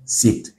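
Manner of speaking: "sit" with the plain i of a French word; French-like i sound. Shown as a demonstration. Teacher shows learners the first sound, "sit" with French-like i. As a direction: say "sit" with a single i vowel, no glide. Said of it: "on le prononce comme si on avait un mot en français".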